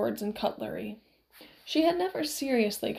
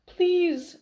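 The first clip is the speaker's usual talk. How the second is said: high, loud begging cry; urgent plea; 8 semitones higher, 6 dB louder than usual. A narrator's reading. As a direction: urge a friend desperately. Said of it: "Inigo urged".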